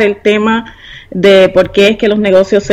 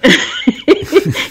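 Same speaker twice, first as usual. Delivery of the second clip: soft breathy giggle, higher; bashful laugh; 5 semitones higher, 3 dB quieter than usual. Real, not acted. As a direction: laugh off the compliment shyly. Flattered by accent compliment. (risa tímida y aireada)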